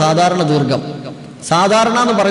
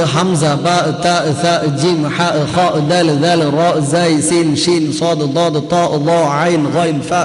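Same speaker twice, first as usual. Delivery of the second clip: lower, rhythmic letter-by-letter listing; reciting the alphabet; 3 semitones lower, much slower than usual. Shown as a demonstration. Teacher urges students to learn the letters, rhythmic recital. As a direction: list the letters in a steady beat.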